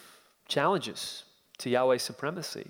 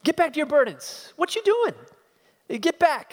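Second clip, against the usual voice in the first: scornful command; 9 semitones higher, faster than usual. Acted. Preacher voicing Pharaoh ordering the slaves back, scornful shout. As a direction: order them back to work with contempt. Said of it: "You see his resolve".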